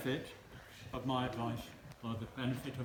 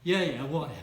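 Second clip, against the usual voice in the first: "Yeah, yeah, whatever" tossed off louder and offhand; dismissive brush-off; 8 dB louder than usual. Shown as a demonstration. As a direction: shrug her off with "Yeah, yeah, whatever".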